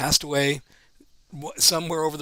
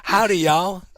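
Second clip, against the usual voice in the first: country drawl; slower than usual. Pretend. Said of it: "can you speak country pidgin".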